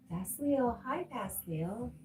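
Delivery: high, drawn-out friendly call to a viewer; sing-song greeting. Real, not acted. Host calling out a hello to a viewer, high and drawn out. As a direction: stretch the name out high like calling across a room.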